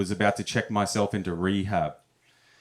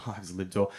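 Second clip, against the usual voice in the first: much softer, chuckling the name again; repeated through a laugh; 2 semitones lower, 7 dB quieter than usual. Shown as a demonstration. Comic repeating the rehab name softly through laughter. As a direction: savour the ironic name, quietly laughing. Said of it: "the name of the rehab clinic was actually called".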